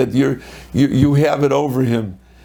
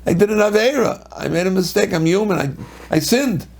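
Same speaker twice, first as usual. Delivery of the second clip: higher, pleading voice of someone admitting a sin; a confessing sinner; 5 semitones higher than usual. Retold or imitated. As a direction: own up to the mistake, a touch of remorse. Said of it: "I said".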